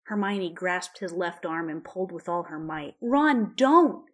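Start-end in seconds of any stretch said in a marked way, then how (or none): 3.0-4.1 high, loud begging cry; begging shout. A narrator's reading. Hermione pulling Ron's arm, loud begging cry. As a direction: cry out to stop him. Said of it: "she begged".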